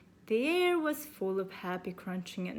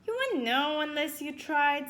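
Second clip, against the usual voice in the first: put-on high girl voice; 6 semitones higher, 5 dB louder than usual.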